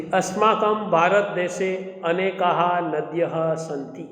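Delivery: fast, fluent Sanskrit reading; fast recitation. Shown as a demonstration. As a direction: rattle off the Sanskrit sentence like a practiced reader. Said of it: "read the following paragraph with correct pronunciation".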